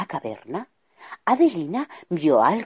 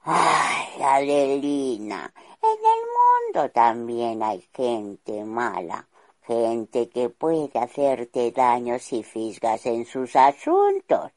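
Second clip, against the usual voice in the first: slow, a touch lower, mildly weary father; sighing, insisting king; 2 semitones lower, slower than usual. Acted. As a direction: sigh and press the warning slowly. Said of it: "El rey suspiraba e insistía".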